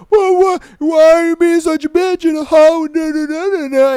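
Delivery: shrieked high and loud, full hammed-up rage; mock angry ex shout. Mocking the ex screaming at her in the club, hammed-up shout. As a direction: yell it like the furious ex in the club. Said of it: "he like".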